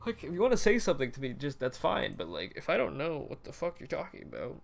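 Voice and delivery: high, fast, incredulous rant; baffled rant. Retold or imitated. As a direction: squeak out your bewilderment at a weird message. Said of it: "I was like".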